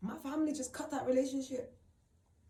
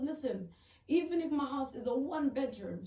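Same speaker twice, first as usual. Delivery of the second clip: louder, emphatic friend, retold; urgent insistence; 4 semitones higher, 5 dB louder than usual. Friend offers her one-bedroom home, urgent insistence.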